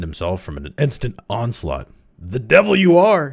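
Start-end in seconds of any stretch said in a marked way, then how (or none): 2.2-3.3 loud, high outburst of shock; alarmed cry. A narrator's reading. Cowden jumping up at Crowley's revelation, crying out. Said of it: "he cried".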